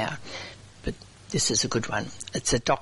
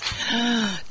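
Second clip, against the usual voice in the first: audible high gasp; 8 semitones higher than usual. Real, not acted. Radio host reacting to the joke's punchline, gasp. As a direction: let out a sharp, audible gasp.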